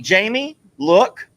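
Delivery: loud, urgent call to look; alarmed call. Real, not acted. Husband spotting loose birds, urgently calling wife. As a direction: grab her attention fast.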